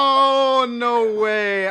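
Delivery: high, loud excited cry; excited shout. Real, not acted. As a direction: gasp out in delight. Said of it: "I would have exploded".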